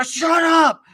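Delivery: loud, high mock yell; mad shouting. Angry stranger silencing the sign holder, mad shouting. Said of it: "they're mad".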